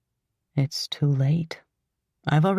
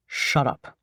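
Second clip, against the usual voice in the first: weary, bored low sigh; 5 semitones lower than usual. Acted. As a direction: let it out tired, sighing. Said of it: "the man sighs".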